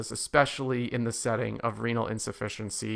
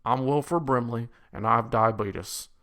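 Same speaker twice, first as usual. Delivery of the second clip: lightly voiced Southern accent. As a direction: imitate a folksy Southern TV spokesman, mildly. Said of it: "in his little Southern accent".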